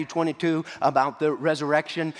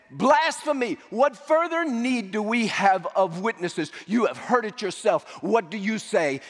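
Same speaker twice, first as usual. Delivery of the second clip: outraged cry; 6 semitones higher than usual. Retold or imitated. High priest denouncing Jesus before the council, outraged shout. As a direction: cry out as if scandalised by blasphemy.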